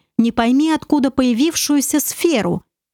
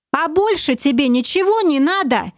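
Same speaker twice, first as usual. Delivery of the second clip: cocky bravado; 4 semitones higher than usual. Acted. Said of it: "решил взять древнего ящера понтами".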